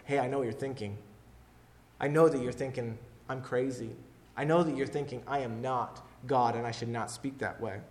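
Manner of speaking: quiet, calm, understanding tone; calm knowing. Acted. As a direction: gently let them know you see them. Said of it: "It was more like".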